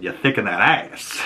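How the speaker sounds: laughing, playful example of a compliment; jokey appreciative demo, breaking into a laugh. Shown as a demonstration. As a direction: say it as cheeky praise. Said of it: "or it can be a compliment".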